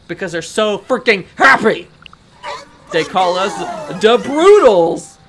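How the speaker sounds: hammed-up fake mafia henchman; half-faked Italian mobster, punching the last words; attempted Italian mafia accent. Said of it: "like the Italian mafia kind of accent".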